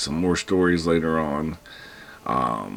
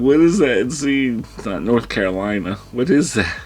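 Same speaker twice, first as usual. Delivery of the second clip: high, loud mock panic; hammed-up anxious outburst; high anxiety; 8 semitones higher, 5 dB louder than usual. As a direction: blurt it out flustered, pitch shooting up. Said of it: "giving me high anxiety".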